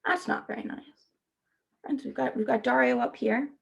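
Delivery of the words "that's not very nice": hushed. Real, not acted. Teacher disapproves of the whale.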